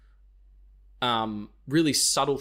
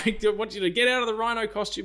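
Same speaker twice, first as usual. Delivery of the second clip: megaphone call; 9 semitones higher than usual. Retold or imitated. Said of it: "gets the megaphone out and is like".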